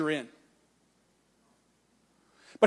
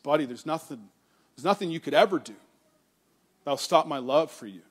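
tender reassurance; 3 semitones lower than usual. Retold or imitated. Father tells his son nothing stops his love, tenderly. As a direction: reassure a hurt boy gently.

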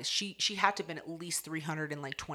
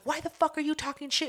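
high, quick confrontational retort; imitating an offended challenge; 9 semitones higher, faster than usual. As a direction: snap it like an insulted schoolgirl. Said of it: "So old girl gets offended".

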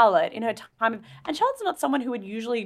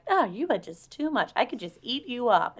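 quoting the woman; 4 semitones higher, 4 dB quieter than usual. Retold or imitated. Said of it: "this woman when she's like".

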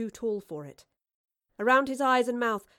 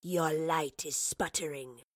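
low, hissed creature line; hissing creature; 4 semitones lower, slower than usual. Acted. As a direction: hiss it with contempt. Creature threatens Marlowe.

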